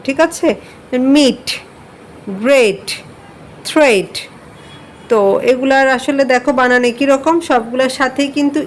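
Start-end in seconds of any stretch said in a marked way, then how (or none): 1.1-4.1 মিট, গ্রেট, থ্রেট with each final ট puffed like ঠ; aspirated final T. Shown as a demonstration. Teacher models careful English endings, aspirated T on মিট, গ্রেট, থ্রেট. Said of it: "ট উচ্চারণ না করে ঠ উচ্চারণ করব".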